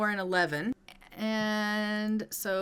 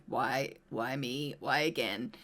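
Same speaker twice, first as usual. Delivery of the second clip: whiny sad Kate; 7 semitones lower than usual. Acted. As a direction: sulk it out like a self-pitying mother. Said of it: "she's always so sad".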